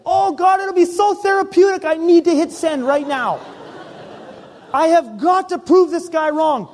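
desperate pleading. Retold or imitated. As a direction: beg like it would be therapeutic. Retold pleading to send the email.

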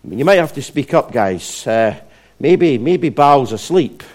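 lightly acted goading; having some fun. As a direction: tease them as if helpfully. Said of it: "Elijah's having some fun".

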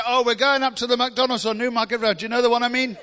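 a hint of the friend's way of talking; picked-up catchphrase. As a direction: slip into the friend's habit. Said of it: "it got in my mouth".

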